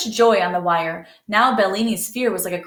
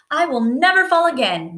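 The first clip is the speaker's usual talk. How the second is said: put-on high, louder boast of a girl; excited shout; 7 semitones higher, 4 dB louder than usual. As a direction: cry it out proudly. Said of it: "Mariette shouted".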